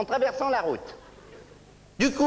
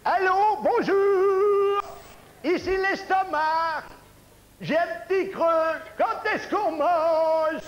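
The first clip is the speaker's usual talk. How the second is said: stomach voice; 4 semitones higher, much slower than usual. Acted. Stomach character on the phone.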